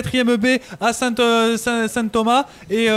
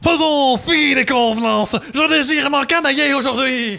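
grandiose royal tone; exalted king; 2 semitones higher than usual. Acted. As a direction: play the bored king seeking thrills. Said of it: "je vais vous demander de jouer de manière plus exaltée". (roi exalté)

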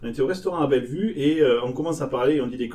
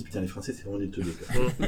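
muttered aside; 6 semitones lower, 6 dB quieter than usual. Retold or imitated. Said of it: "elles se disent".

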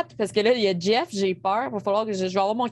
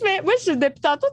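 ordinary talk, nothing marked

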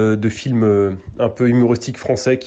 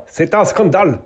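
mild mock German accent; 4 semitones higher than usual. Shown as a demonstration. Coach shows the learner a sample line, mock German accent. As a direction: put on a light German accent. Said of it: "J'ai jamais essayé de faire l'accent allemand".

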